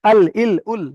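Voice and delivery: "আল, ইল, উল" with l at the gum of the upper teeth; tongue-tip lam. Shown as a demonstration. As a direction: show "আল, ইল, উল", tongue tip held on the tooth roots. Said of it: "উপরে দাঁতের গোড়ার সঙ্গে".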